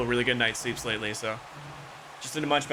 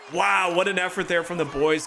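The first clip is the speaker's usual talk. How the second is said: excited; 5 semitones higher than usual. Real, not acted. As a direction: cheer the effort. Reacting to great save.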